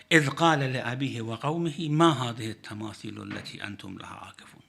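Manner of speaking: fast, fluent Quranic recitation. Acted. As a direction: chant the verse briskly, reverently.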